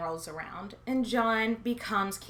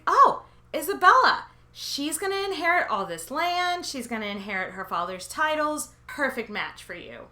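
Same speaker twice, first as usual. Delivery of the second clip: matchmaking Henry; 5 semitones higher, 4 dB louder than usual. Retold or imitated. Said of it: "he was like".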